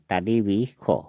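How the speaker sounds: "तालिबिखो" with kho at the end; Assamese pronunciation. Shown as a demonstration. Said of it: "असमिया में इसका उच्चारण होगा".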